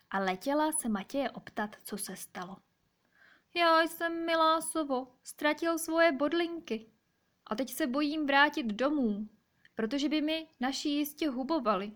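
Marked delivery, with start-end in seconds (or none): 3.5-11.9 high, plaintive hedgehog voice; high-voiced, woeful storybook hedgehog; upset little hedgehog. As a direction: confess your trouble as a small hedgehog, pitched up. Crying hedgehog confides in the owl.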